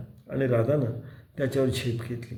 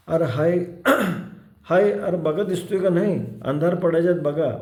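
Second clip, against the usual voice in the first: urgent shout to the villagers, higher; 5 semitones higher, 4 dB louder than usual. Acted. Bhairu shouts to the villagers to search before dark, alarmed shout. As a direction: cry out in alarm. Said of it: "भैरुमांग ओरडला".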